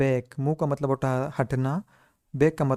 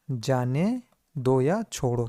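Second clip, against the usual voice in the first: slow teaching; much slower than usual. Shown as a demonstration. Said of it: "क्या बोलेंगे दोस्तों इसको?".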